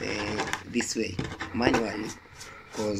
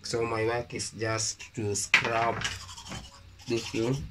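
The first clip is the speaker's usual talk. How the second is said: toothbrush in mouth; speaking around brush; talking while brushing teeth. Real, not acted. Seen 0: Toothbrush is in his mouth and he brushes throughout the words.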